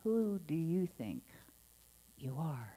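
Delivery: sincere question. Shown as a demonstration. Minister repeating the question sincerely for contemplation. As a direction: ask with real curiosity. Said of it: "Whole different, same words".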